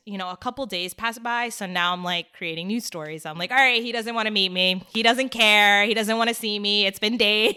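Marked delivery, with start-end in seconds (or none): 3.5-7.5 louder, hammed-up self-pitying rant; mock despair. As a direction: spiral into made-up rejection, half joking. Voices her invented worst-case stories.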